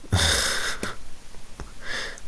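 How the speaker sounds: breathless wheezing laugh; silent laugh. Real, not acted. Youtuber cracking up at his own joke, wheezing silently. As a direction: laugh with almost no voice.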